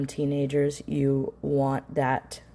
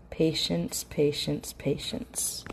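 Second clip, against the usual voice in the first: each patience softer until whispered; fading to a whisper; 5 dB quieter, slower than usual. Shown as a demonstration. Coach reminding parents to stay calm, fading to a whisper. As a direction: let it fade into a breath. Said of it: "repeated, fading to a whisper".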